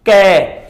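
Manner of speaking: ਕੈ said alone, slow and clear from the back of the throat; isolated sound demo. Shown as a demonstration. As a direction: sound out ਕੈ crisply for learners. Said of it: "ਜਿੱਦਾਂ ਅਸੀਂ ਉਚਾਰਿਆ".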